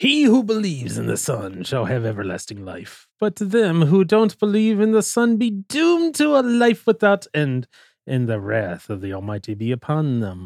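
very piratey, swooping, sing-song pirate voice. Speaker reads John 3:36 from the Pirate Bible version, as piratey as possible. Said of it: "I'm going to read this as piratey as I can".

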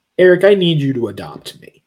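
mock grave, heartfelt, dead-serious and earnest. Retelling a scene where a boy asks eric to adopt him: imitating a very serious plea. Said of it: "In a very serious".

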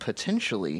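stressing the word potentially. Explaining to listeners, putting emphasis on the word potentially. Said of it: "emphasis on the word potentially".

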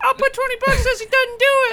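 put-on very high, piping little-kid voice. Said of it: "That sounded like a little kid".

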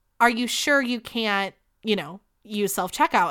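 ordinary talk

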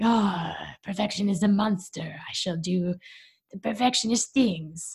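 funny put-on French accent. Voicing the perfectionist part of their brain in a French accent. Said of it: "I don't know why it sounds like a Frenchman".

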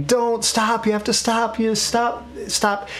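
high, distressed, put-on screaming cry. Retelling an experiment, act out the person in distress begging for it to stop, imitating someone screaming. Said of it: "they're screaming".

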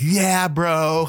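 put-on California surfer accent. Describing how people answer when asked for an american accent, california surfer accent. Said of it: "sound like California surfers".

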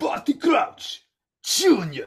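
put-on Bulgarian accent. Fans recalling the scene where Barty Crouch Jr. is revealed quote Igor: Igor's big Bulgarian accent. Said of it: "with Igor in that big Bulgarian accent".

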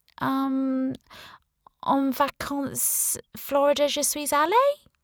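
put-on very slow, plodding, clunky English accent. Reading a character's answer during French phrase practice, clunky English accent. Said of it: "Becky said in a clunky English accent".

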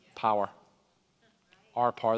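Irish pronunciation. Preaching about giving the enemy our power: very Irish pronunciation. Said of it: "That was very Irish".

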